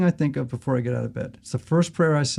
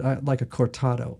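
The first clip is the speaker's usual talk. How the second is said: cold, curt coffee order, a bit softer; icy; 4 dB quieter than usual. Retold or imitated. Grumpy customer ordering from a chatty barista, icily. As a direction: order the drink coldly and flatly. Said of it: "you know, kinda icily".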